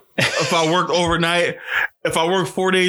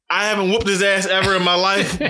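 lightly put-on innocent mom; a hint of fake niceness, pitched up a little; mildly mocking mom impression; 4 semitones higher than usual. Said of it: "they put this fake".

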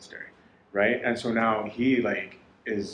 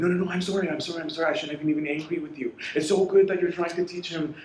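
higher-pitched, hurried run of apologies; gushing mock apology; 6 semitones higher than usual. Monk hastily making up after a quarrel, gushing higher-pitched apology. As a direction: tumble over yourself apologizing, pitched up. Retold rush of mutual apologies.

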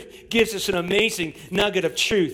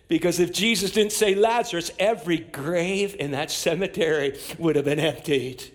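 ordinary talk

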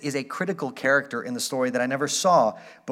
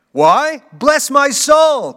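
high, loud, slow astonished cry; a nephew stunned to see his uncle at the door; 11 semitones higher, 12 dB louder, much slower than usual. A narrator's reading. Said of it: "cried Fred".

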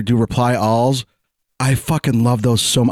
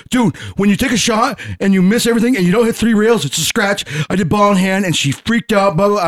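higher-pitched mock indignant pool player; mimicking the angry guy; 5 semitones higher than usual. To his friend, the upset guy complaining about ball in hand, mock indignant. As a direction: play up his huffy complaint.

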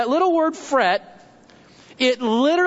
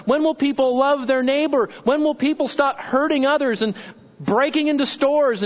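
higher-pitched, pleading string of questions; mock fretting, raised and insistent; agitated; 4 semitones higher than usual. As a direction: act out getting worked up at the world. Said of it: "This is getting all excited".

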